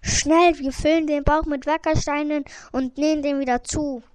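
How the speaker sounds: urgent. Acted. Hunter urges quick action.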